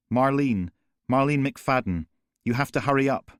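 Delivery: giving her name while begging for speed; panicked caller. Acted.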